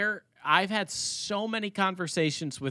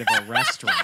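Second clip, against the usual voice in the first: Billy Mays ad read; 8 semitones higher, 4 dB louder, much faster than usual. Acted. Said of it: "the Billy Mays ad read".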